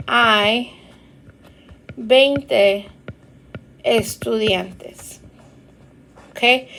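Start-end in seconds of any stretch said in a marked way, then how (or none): 0.1-5.2 "Hay veinte estudiantes" said slowly, falling at the end; teacher model answer; slow Spanish answer. Shown as a demonstration. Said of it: "my answer would be".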